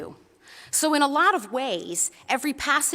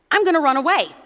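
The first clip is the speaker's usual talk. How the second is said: bunny running away; 6 semitones higher, 7 dB louder, faster than usual. Acted. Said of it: "So he says to his mother".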